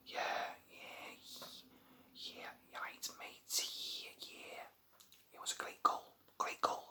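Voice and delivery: put-on whispered Scouse footballer accent, lightly done; a hint of a Scouse footballer giving a post-match interview. Vlogger playing a Scouse footballer in a post-match interview, in a light Scouse accent. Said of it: "I don't know why I'm Scouse".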